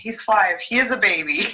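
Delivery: retold incredulous objection; indignant comeback. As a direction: push back in mild disbelief. Retelling her indignant comeback.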